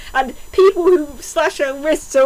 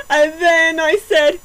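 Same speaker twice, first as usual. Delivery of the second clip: ordinary delivery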